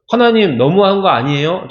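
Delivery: mock sulky teenager protest; teen rebellious. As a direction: talk back to God like a rebellious teen. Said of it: "청소년 반항적인". (반항하는 청소년처럼 투덜대며)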